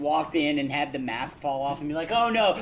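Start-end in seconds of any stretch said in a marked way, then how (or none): 2.1-2.5 high, louder fake oops; mock innocent. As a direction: pretend it was an accident. Acted fake accident quote.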